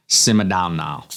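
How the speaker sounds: a lightly put-on Jamaican accent, half joking; terrible Jamaican accent. Reviewer reads the perfume name aloud in a jokey, bad Jamaican accent. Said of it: "terrible Jamaican accent".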